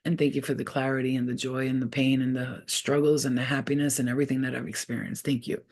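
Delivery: soft, low, steady prayer; quiet thankful invocation; closing prayer. Acted. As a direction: release the reading with gratitude.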